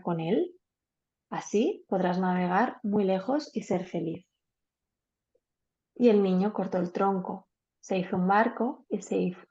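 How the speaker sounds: gentle read-aloud storytelling pace; story narration. A narrator's reading. Teacher reading a simple tale to the class, calm storytelling. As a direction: tell it like a bedtime story to a group.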